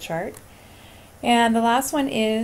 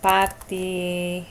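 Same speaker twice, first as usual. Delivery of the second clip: Patinas said slowly and clearly; slow demo; much slower than usual. Shown as a demonstration. Teacher typing the answer for students, slow and clear. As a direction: stretch out Patinas so students hear the ending. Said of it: "Let's type it in".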